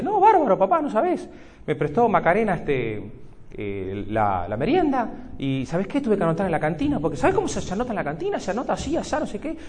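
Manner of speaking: excited little daughter. Retold or imitated. Young daughter telling dad about her lunch, excited. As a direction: gush like a thrilled young girl. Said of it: "Todo contenta".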